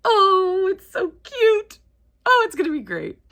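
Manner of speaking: high, loud gush over a cute cover; high-pitched joyful gushing; delighted squeal. Real, not acted. First sight of a cute cover.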